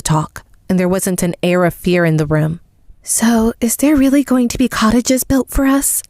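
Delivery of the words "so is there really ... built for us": apprehensive. Acted. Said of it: "asks apprehensively".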